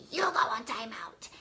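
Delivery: unvoiced whisper as the toddler; mock stern whisper; whispered toddler quote. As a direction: hush it like a little boy copying mom.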